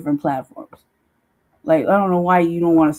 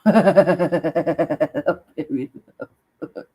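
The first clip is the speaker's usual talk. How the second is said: very slow, stretched out through laughter; laughing, very slow; 3 semitones lower, much slower than usual. Real, not acted. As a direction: drag it out while laughing.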